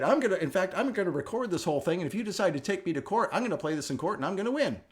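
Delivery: a hint of a defiant customer; defiant threat. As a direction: dare her to take him to court. Billy threatens to record her.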